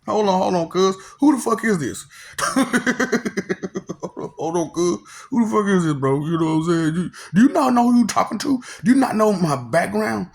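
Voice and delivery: high, loud outraged retort; indignant. Retold or imitated. Indignant retold reply to heaven.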